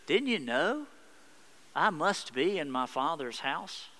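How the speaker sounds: soft, calm correction; a hint of a young son's mild rebuke; gentle rebuke. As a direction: gently set his parents right. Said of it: "a gentle rebuke of his own".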